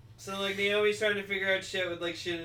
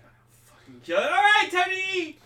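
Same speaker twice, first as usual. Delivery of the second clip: much higher, louder put-on voice brushing it off; Guy's dismissive voice; 9 dB louder, faster than usual. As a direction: squeak out a careless brush-off, then go eat. Guy voiced in retold scene.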